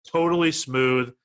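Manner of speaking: slow, drawn-out beer ad copy; hammed-up ad read. Host reads the beer blurb to co-hosts, hammed-up ad read. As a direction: sell each phrase with a pause.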